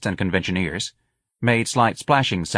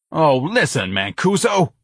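screamed; 9 semitones higher, 4 dB louder, slower than usual. A narrator's reading. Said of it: "the sergeant screamed".

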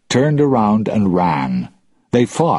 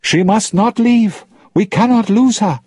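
high, loud angry order; 5 dB louder than usual. Acted. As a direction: stop her, forcefully. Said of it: "Tia Dalma spoke angrily".

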